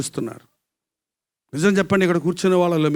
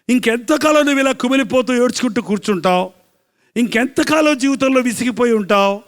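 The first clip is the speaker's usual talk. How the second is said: higher, repeated pleading questions; preached appeal; 6 semitones higher, 4 dB louder than usual. Acted. Preacher voicing the Lord questioning a suffering listener, preached appeal. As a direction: press each question like an exhorting preacher. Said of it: "అని చెప్పే ప్రభువు".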